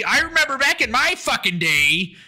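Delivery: hammed-up nostalgic griping; old-timer rant. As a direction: rant like things were better once. Mock old-timer rant about menus.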